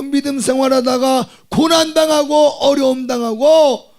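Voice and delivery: fervent Korean pulpit cry; full-force preaching. Acted. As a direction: build the sermon to a shout.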